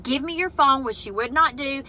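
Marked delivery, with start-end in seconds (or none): 0.0-0.8 retold yell. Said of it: "I yelled back at her".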